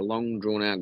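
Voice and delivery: long, slow stretch on the words; drawn-out. Retold or imitated. Describing the growl to friends, drawn-out.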